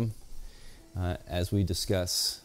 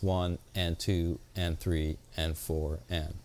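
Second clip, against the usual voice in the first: slow swung count; 3 semitones lower, slower than usual. Shown as a demonstration. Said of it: "With swing".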